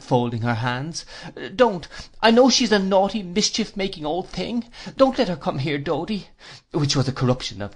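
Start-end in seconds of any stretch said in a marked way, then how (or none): 1.5-6.3 put-on high-pitched childish sweetheart, begging; pleading Dora. Dora begs Dodie to keep the aunt away, high pleading. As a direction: coax and protest in a much higher voice.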